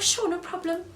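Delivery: sweet then trailing off; mock eager agreement fading. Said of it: "I would have been like".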